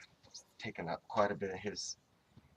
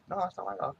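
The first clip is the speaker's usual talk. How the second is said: imitating the stranger; 12 semitones higher, 5 dB louder, faster than usual.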